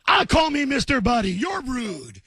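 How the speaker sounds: hammed-up indignant yell; mock shout. Real, not acted. Host yelling at a rude caller in mock outrage.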